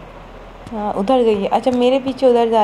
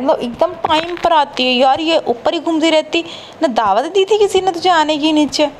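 higher, teasing scold at the ghost; mock scolding; 5 semitones higher than usual. Real, not acted. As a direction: tease the ghost for always showing up. Taunting the ghost.

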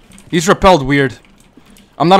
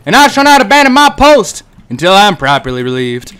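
mock soldier oath. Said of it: "doing that perimeter shit again".

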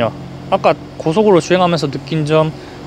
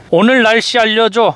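clear command voice; 5 semitones higher than usual. Shown as a demonstration. Voice command to car.

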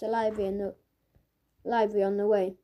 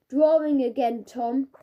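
louder, higher telling-off; stern teacher call; 3 semitones higher, 6 dB louder than usual. Acted. Teacher catching Tom doodling in class, stern call. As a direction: catch him out with his name.

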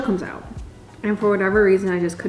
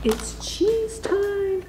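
high, slow playful announcing; sing-song announcement; 13 semitones higher, much slower than usual. Real, not acted. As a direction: drag it out like a treat reveal.

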